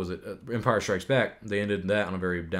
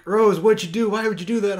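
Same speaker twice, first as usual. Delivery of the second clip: higher and louder, mock distress; shrill mock "why would you do that"; mock-imitating a panicked Finn, higher and louder; quoting Finn; 10 semitones higher, 8 dB louder than usual. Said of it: "he's like".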